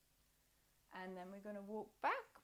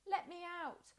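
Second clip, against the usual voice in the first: mild cat voice; 8 semitones higher than usual. Retold or imitated. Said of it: "likes to let me know when she wants".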